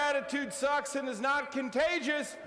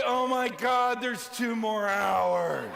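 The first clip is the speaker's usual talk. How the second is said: sag at the thought of more work; weary groan; 2 semitones lower, slower than usual. Shown as a demonstration. Speaker mocking a worn-out employee, weary and drawn out. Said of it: "what is your attitude at the end of the day".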